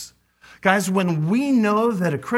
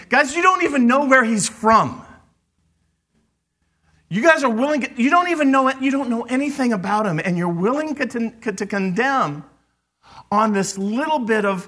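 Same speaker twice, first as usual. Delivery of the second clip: a higher, louder urgent plea to the council; Nicodemus pleading; 6 semitones higher, 4 dB louder than usual. Acted. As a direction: urge them not to condemn. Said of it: "What's he saying?".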